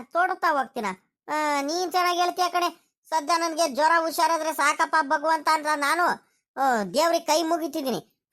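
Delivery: a hint of a sickly old man protesting; old grandfather Rangajja. Grandfather Rangajja pleads innocence. (ಸ್ವಲ್ಪ ಎತ್ತರದ ದನಿಯ ಮುದುಕ, ಗೋಳಾಟ)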